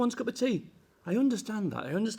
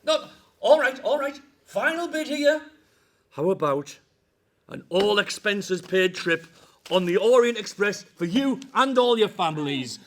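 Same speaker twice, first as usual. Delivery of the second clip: loud game-show host pitch; booming prize announcer; 4 dB louder than usual. Acted. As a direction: boom it like a prize reveal. Escalating bribes to the team.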